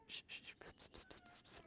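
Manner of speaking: hushed, voiceless pretend whispers; whispering. Shown as a demonstration. Storyteller shows children how friends whisper, voiceless whisper. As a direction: shush and hiss very softly. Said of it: "Can you whisper?".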